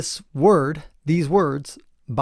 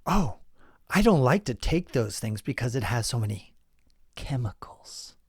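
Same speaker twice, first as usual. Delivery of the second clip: mock whisper; 4 dB quieter than usual. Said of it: "I always hear people say".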